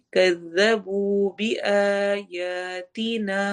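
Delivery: slow chant, equal-length madd; slow Quran recitation. Shown as a demonstration. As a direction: hold each long vowel the same length. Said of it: "دونوں ایک جتنے لمبے ہوں گے". (برابر لمبی مد کے ساتھ تلاوت)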